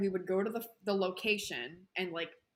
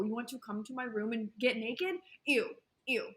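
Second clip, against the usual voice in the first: disgusted mock; 3 semitones higher than usual. Mocking the creepy request.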